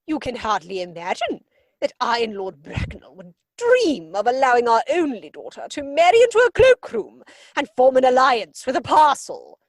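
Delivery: loud, indignant and grand; outraged refusal. Acted. Lady Bracknell refusing to let her daughter marry Jack, outraged. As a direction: thunder the refusal.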